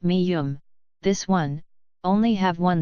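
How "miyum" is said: "miyum" said with clear M sounds at the start and the end; name the letter "miyum" for the class; Korean letter name. Shown as a demonstration. Teacher naming the next Korean consonant, careful pronunciation. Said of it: "This consonant is called".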